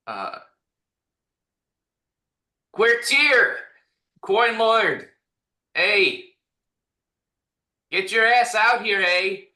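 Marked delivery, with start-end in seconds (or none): 2.7-9.5 loud call into the next room; shouting across the room. Acted. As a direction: holler for the servant to come out. Calling out for the hidden servant.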